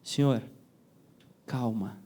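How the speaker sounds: soft and low, very gentle; calm them down softly, like a hand on the shoulder; soothing. Shown as a demonstration. Teacher showing how to calm a frightened person, soft and low. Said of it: "vira pra ela e fala assim".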